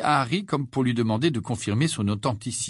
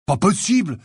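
choked, higher-pitched disbelief; stifled voice; 7 semitones higher, 5 dB louder than usual. A narrator's reading. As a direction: gasp it out as if stifled. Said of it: "d'une voix étouffée".

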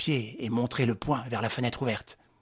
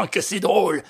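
sneering; 6 semitones higher, 6 dB louder than usual. A narrator's reading. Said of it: "Il ricanait rageusement".

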